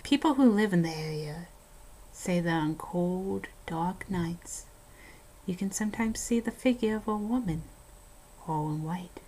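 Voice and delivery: hushed ghost-story telling, dropping to a whisper at the scary parts; spooky story narration. Acted. Host reading a haunted house story to a co-host, spooky narration. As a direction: tell it like a campfire horror tale.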